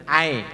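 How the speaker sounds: "ai" tilted into "ae"; bunyi miring. Shown as a demonstration. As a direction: open the end of "ai" to e. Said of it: "miring itu namanya". ("ai" dibaca miring menjadi ae)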